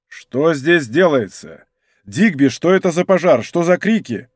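sonorous, measured demand; resonant voice. Acted. Monk stepping forward to the soldiers, resonant authority. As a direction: ring out with authority. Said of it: "сказал звучным голосом".

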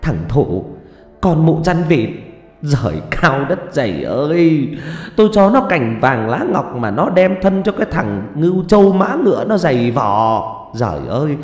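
high, loud lament to the heavens; loud wailing. A narrator's reading. Mother crying up to heaven over her daughter, loud wailing. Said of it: "giơ lên mà gào lớn".

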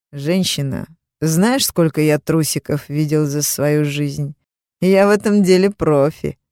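smug and pleased with himself, grinning; cocky boast with a grin. Acted. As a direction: brag it through a self-satisfied smile. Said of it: "сказал он с самодовольной улыбкой".

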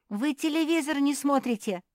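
high, loud amazed cry; astonished. Acted. Krikunya amazed they don't watch TV, high and loud. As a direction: exclaim in disbelief. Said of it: "поразилась Крикунья".

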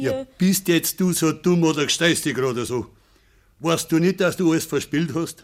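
loud, rising reproach; scolding. Acted. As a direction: hammer the blame home. Father berates daughter's past.

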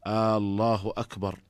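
آه الله أكبر with the hamza of الله lengthened into a long آه, falling at the end; drawn-out hamza. Shown as a demonstration. Teacher demonstrating the faulty long hamza in the adhan. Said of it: "فيقول".

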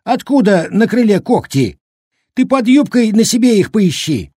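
put-on high, loud old man's tirade; angry scolding. A narrator's reading. Old cook turning on the village woman, scolding. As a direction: berate her at full indignation. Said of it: "обрушился на бабу дед Щукарь".

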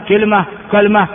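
كلمة as kilma, then kalma; two short variants. Shown as a demonstration. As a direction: say كلمة first with i, then a, l vowelless. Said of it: "هذه كلها لغة صحيحة". (كلمة بكسر الكاف ثم فتحها مع تسكين اللام)

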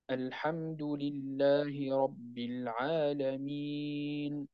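very slow, chanted recitation, the madd held four beats; medium madd. Shown as a demonstration. Teacher chanting the medium lengthening. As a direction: stretch العالمين to four beats. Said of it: "أو أربع".

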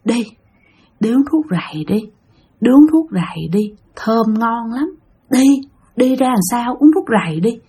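a gentle, honeyed woman's call; sweet ghostly woman's voice. Retold or imitated. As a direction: sweetly tempt him to drink, like a spirit. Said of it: "bà nói ngọt ngào lắm".

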